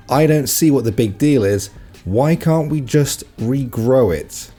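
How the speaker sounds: slow, puzzled mock-innocent question; clueless girl quote. Classmate in science class, lightly mimicked clueless. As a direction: sound sincerely baffled. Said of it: "a girl piped up and said".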